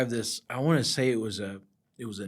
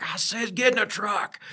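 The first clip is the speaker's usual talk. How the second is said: higher insistent command; mock firm order; 9 semitones higher, 4 dB louder than usual. Boss repeating his order, mock firm command. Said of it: "He's like".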